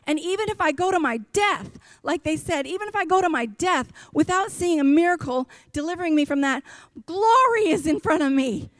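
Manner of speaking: rising, ringing preacher's cadence up to a hallelujah; preaching at full force. Real, not acted. Pastor preaching deliverance to his church, full-force preaching. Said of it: "Sorry, I got to preach in here".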